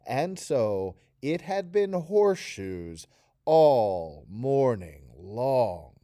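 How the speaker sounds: slow, drawn-out bored reading. Shown as a demonstration. Teacher demonstrating a bored Taryn for students. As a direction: drag it out as if endlessly bored. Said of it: "So say it with me".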